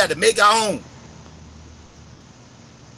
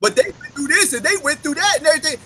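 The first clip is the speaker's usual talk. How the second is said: mock objector; 9 semitones higher than usual. Mock question from imagined critic.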